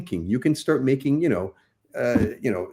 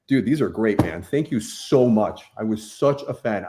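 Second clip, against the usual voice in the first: changed cool voice. Retold or imitated. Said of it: "So I totally changed my voice".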